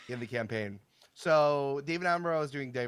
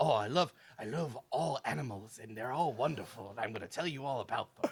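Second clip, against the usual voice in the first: put-on wildlife documentary presenter delivery; 4 dB quieter than usual. Retelling how he answered questions about animals, do a David Attenborough impression. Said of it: "wonderful impression".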